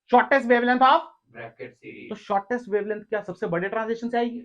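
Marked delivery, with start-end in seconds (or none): 0.1-2.1 repeating the question slowly for students to write; slow dictation. Shown as a demonstration. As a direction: stretch each word so they copy it down. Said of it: "मैं बोलता हूँ सीधे".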